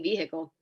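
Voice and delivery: put-on "vehicle" as VEE-hick-ul, as in childhood; vehicle with sounded H. Shown as a demonstration. Explaining how they grew up saying it, "vehicle" with sounded H. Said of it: "grew up saying vehicle".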